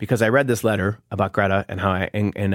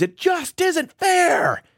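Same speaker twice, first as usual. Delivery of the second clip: very high, very slow, drawn-out angry screamed outburst. Retelling how a leader slammed a pillow to demonstrate: David Kessler screaming, retold. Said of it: "he screams".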